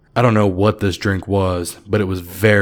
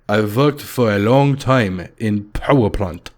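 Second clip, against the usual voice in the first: put-on slow, proud Russian accent; a Russian boasting of his plant job; slow Russian accent with a touch of pride. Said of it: "he stated happily".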